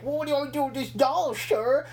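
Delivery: high, fast caricature nerd; squeaky mock-nerd impression. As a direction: rush it out like an eager underling. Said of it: "the fucking nerd is like".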